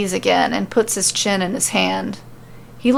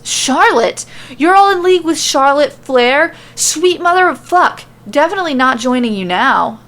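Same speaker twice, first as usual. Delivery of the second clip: high, loud panicked scream; 7 semitones higher, 5 dB louder than usual. Acted. Sammy screams down at the group in outrage, high and loud. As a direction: shriek it out in outrage. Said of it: "Sammy screams".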